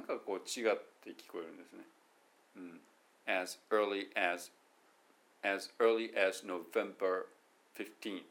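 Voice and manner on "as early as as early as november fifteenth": "as early as November fifteenth" each word separate, slow; choppy word by word. Shown as a demonstration. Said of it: "英語っぽくしても、なんかちゃうでしょ".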